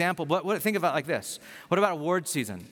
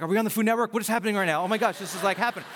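higher, excited imitation of a starstruck wife; freaking out; 5 semitones higher, much faster than usual. Wife freaking out at meeting the chef, excited. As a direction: gush in disbelief, pitched up. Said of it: "She's freaking out".

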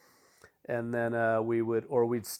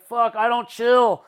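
mock emphatic dad; 10 semitones higher, 6 dB louder than usual. Dad quoted, slow emphatic.

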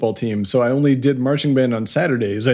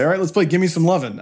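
imitating the teacher calling a tune, a bit higher; mock band director; 6 semitones higher than usual. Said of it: "he would say".

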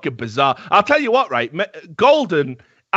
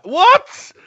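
loud high disbelieving what; incredulous; 6 dB louder than usual. Real, not acted. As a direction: shout it in disbelief. Disbelieving outburst.

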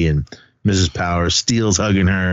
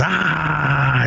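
long, drawn-out "ahh" of outrage, raised pitch; mock angry cry; 8 semitones higher than usual. Principal mad at the test scores, imitated angry cry. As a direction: imitate someone blowing up, not full volume. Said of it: "he gets all mad".

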